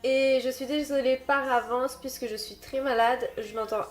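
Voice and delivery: stuffy nose from a cold, talking through it; blocked nose. Real, not acted. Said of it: "je parle du nez". (voix du nez bouché)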